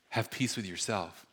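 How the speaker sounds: soft intimate voice. Acted. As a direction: say it gently into someone's ear. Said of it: "he leans in and he goes".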